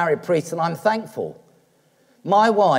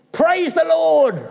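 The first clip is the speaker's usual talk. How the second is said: much higher, slow, louder cry of praise; joyful exclamation; 11 semitones higher, 4 dB louder, slower than usual. Real, not acted. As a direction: burst out in glad praise to the congregation. Preacher rejoices at the answer.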